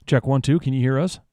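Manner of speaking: loud, carrying mic check. Real, not acted. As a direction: call it out like testing a mic.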